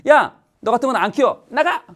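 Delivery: high, mock-furious outburst; imitated maternal fury, rising in pitch; angry mother. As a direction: order the child out in an acted temper. Acts mother throwing child out.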